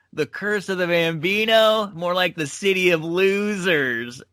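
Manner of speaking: lightly acted heckler ripping on a crowd; mock taunts, pitch climbing toward the end; Pete Rose. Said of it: "He starts ripping on Boston".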